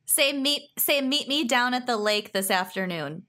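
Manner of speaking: flat Minnesota vowels; Minnesota accent. Shown as a demonstration. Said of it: "please give us a sample".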